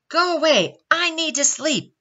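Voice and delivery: high, loud exasperated yell. A narrator's reading. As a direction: yell at them to leave you alone. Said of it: "yelled Baby Baobab".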